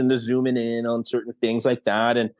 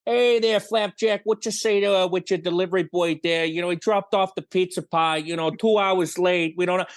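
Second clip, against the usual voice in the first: high goofy prank-call voice; silly prank voice; 4 semitones higher than usual. Retold or imitated. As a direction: ham up a goofy prank caller. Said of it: "silly voices constantly".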